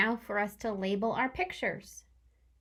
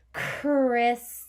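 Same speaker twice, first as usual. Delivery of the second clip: chrysalis slowed and louder; stretched out; 2 semitones higher, 6 dB louder, slower than usual. Shown as a demonstration. Teacher stretching chrysalis for kid spelling, slow. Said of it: "stretch it out".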